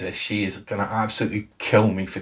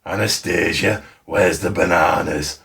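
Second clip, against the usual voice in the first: lower, hammed-up Yorkshire accent; bad Yorkshire accent; 3 semitones lower than usual. Making sister blush with a bad Yorkshire accent. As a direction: tease in a put-on, really bad Yorkshire accent. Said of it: "like, this really bad Yorkshire accent".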